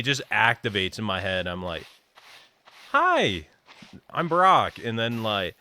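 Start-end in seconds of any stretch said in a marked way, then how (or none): 2.9-4.8 put-on high, loud southern-accented greeting; hammed-up southern hello, pitched way up. Retelling a work introduction to a twangy visitor, southern accent. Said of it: "someone comes in with a southern accent".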